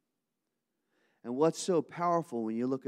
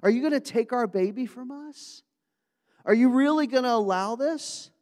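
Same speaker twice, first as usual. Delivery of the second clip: much higher and louder, desperate parents crying to God; anguished plea; 10 semitones higher, 6 dB louder than usual. Acted. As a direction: plead to God over a sick baby. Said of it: "looking at little Josiah going".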